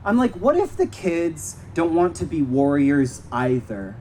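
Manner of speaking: measured poem recital with long pauses; poem reading. Acted. Poet reading to a park audience, measured recital. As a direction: read each line deliberately, then let it hang. Reads their poems aloud.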